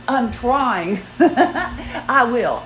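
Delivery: helpless little laugh through the words. Real, not acted. Woman admitting she still has not slept, laughing. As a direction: chuckle while insisting.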